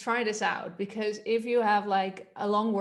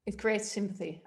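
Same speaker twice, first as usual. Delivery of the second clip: ordinary talk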